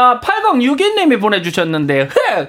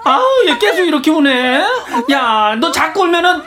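higher-pitched acted mother, exasperated; scolding mother; 8 semitones higher than usual. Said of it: "엄마의 목소리가 들려왔습니다". (우는 아이 혼내는 엄마 목소리)

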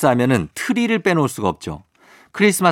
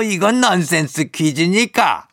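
Santa voice; 5 semitones higher, slower than usual. Pretend.

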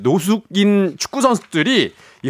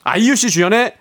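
breathless, unsteady breathing; talking while short of air. Real, not acted. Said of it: "그 호흡이 어떻게 돼? 약간 불안정하거든요".

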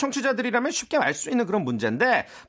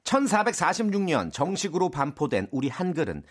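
quiz master reading; 7 semitones lower, 4 dB quieter than usual. Acted. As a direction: pose the true-or-false question deliberately. Quiz master reads the question.

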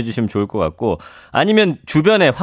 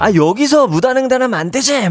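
mock scolding, pitched high; busybody calling out a rule-breaker; 나무라는 참견꾼; 9 semitones higher than usual. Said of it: "사소한 거 사람들 하나하나". (높은 소리로 나무라는 흉내)

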